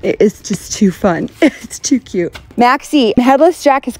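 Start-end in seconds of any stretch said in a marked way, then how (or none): 0.0-2.3 gushing Utah accent, lightly hammed up; Utah local. Showing off Utah sayings to viewers, playful Utah accent. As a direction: gush cheerily like a Utah local. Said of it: "little things like that we like to say".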